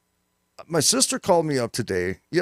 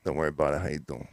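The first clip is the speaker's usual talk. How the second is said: low New York Italian mob guy, "How you doing?" dropped low and soft; 11 semitones lower, 7 dB quieter, faster than usual. Shown as a demonstration. Host demonstrating the New York Italian greeting for his cohost. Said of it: "demoing the line again".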